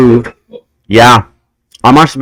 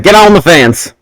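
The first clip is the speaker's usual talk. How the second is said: a mild put-on country accent barking an order; quick imitation of the stable staff's accent; 4 semitones higher than usual. Stable staff telling the kid to climb the fence, in a mild put-on accent. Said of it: "I don't know why I did that accent".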